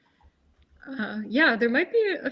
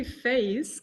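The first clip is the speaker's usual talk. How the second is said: weird Canadian accent; 2 semitones higher than usual. Real, not acted. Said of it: "I just said that with a very weird Canadian accent".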